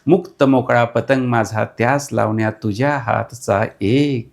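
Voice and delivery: measured poetic recital; reciting verse to an interviewer; poem recital. Acted.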